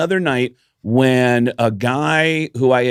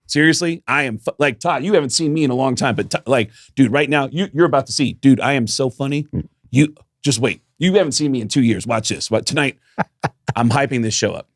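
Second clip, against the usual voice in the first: cocky boasting; 4 semitones higher than usual. Retold or imitated. His cocky boasting to Todd.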